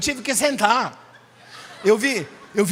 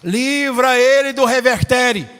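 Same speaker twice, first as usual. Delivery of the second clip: loud prayer; 6 dB louder, slower than usual. Retold or imitated. Pastor's prayer retold loud.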